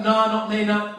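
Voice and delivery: attempted Scottish. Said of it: "I can't do it Scottish".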